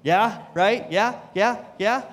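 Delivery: high, fast and eager, coaxing his wife; talking his wife into a trip, eager and pleading. Retold or imitated. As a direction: wheedle her like a kid asking permission. Begging wife to let him go.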